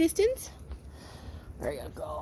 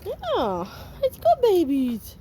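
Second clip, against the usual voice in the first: puppy praise; 5 semitones higher, much slower than usual. Real, not acted. Praising puppies.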